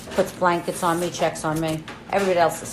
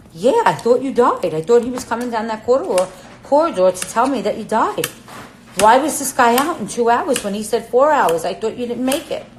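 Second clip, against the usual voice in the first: high, loud, frightened rush of words, retold; retold panicked outburst; 6 semitones higher, 7 dB louder than usual. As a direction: sister blurting out her fear, louder and higher. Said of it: "she said I was petrified".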